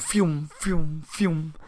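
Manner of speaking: repeated spoken whooshing noises; flying-sword whooshes. Retold or imitated. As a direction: mimic blades flying by, one after another. Imitating swords flying off walls.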